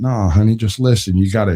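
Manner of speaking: slick, smooth, suave smooth-talker voice. Retelling a stranger hitting on a woman at a store: imitating a suave voice. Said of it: "doing that suave voice thing".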